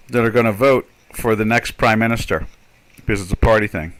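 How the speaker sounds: talking while chewing gum; words around a wad of gum. Real, not acted. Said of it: "Enjoy your meal".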